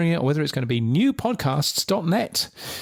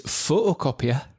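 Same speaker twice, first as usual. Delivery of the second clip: comic Geordie accent; mock Geordie vowels; Newcastle accent. Shown as a demonstration. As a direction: demonstrate a Newcastle accent on one word. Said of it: "there are also equivalents, um, for Newcastle".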